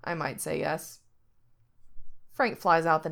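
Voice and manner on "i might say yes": deadpan. Acted. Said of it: "then deadpans".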